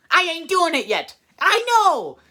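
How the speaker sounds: indignant ghost. Retold or imitated. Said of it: "he responds with".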